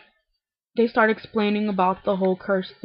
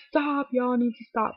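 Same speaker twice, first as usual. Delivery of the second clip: higher-pitched country twang; country accent; 5 semitones higher than usual. Retold or imitated. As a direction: put on a mock country accent. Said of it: "doesn't say it like that, 'cause she's not, like, country".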